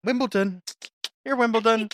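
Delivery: high mocking tease; teasing. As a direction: needle them with the name. Teasing name.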